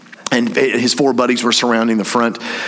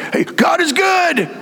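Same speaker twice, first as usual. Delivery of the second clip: cheesy Jerry greeting; slower than usual. Retold or imitated. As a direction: overdo a fake-pious hello, up high. Jerry mocked as cheese ball.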